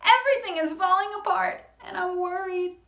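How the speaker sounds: worried. Acted. Shark telling her friend she is worried, fast and high. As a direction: rush it out in a fret. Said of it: "Sakina answered".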